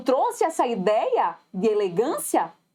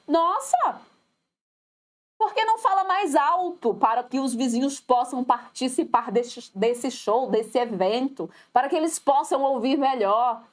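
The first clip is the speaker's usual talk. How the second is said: ironic. Acted. Speaker to a shouting colleague, ironically. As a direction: feign a helpful suggestion, with irony. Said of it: "E eu, ironicamente".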